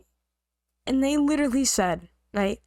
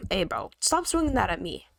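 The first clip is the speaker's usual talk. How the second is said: mock pleading; 6 semitones higher than usual. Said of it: "Just, just trolling him".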